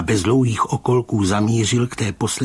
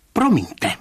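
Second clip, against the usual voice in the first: higher, sharp interruption; 8 semitones higher, 3 dB louder than usual. A narrator's reading. Rybka interrupting the commissioner in dark anger, sharp. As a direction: cut in sharply with rising indignation. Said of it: "prohlásil ostře".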